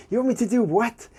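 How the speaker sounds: incredulous. Retold or imitated. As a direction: push "You want me to do what?" up in pitch, fully incredulous. Repeated disbelief, stronger.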